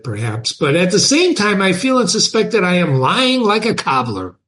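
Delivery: emphatic vow read aloud; dramatic reading. A narrator's reading. Underground man swears to gentlemen he believes nothing, dramatic reading. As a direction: swear it, pitch rising on the stressed words. Reads novel aloud to class.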